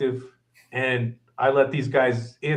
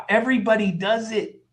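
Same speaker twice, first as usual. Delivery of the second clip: higher-pitched, laughing self-defense; mock defensive retort; 8 semitones higher than usual. Young cook answering angry boss back, mock defensive. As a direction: protest high, half laughing at your own excuse.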